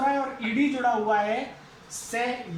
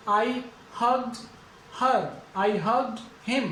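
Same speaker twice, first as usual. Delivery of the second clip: slow demo; much slower than usual. Shown as a demonstration. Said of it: "यहां पे किसकी sound आएगी".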